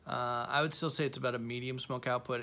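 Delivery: talking around cigar; cigar in mouth. Real, not acted. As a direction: lips closed on cigar. Seen 1: Cigar held between lips in every frame while speaking.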